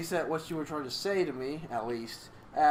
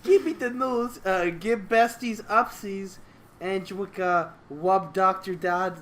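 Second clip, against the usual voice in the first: cutesy fluffy speak; 3 semitones higher, 3 dB louder than usual. Acted. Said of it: "the fluffy speak".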